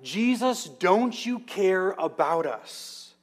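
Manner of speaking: high, desperate cry for help over the storm; a disciple crying out mid-storm, pitch jumping on the name; panicked yell. Retold or imitated. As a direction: call out to the sleeping teacher in panic. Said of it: "Peter finally yells out".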